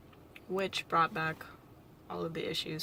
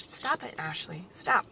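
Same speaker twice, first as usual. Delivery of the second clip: scolding herself; 6 dB louder than usual. Real, not acted.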